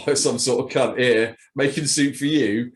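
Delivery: rising into a laughing shout; laughing absurd rant. Acted. Absurd clone bit, laughing.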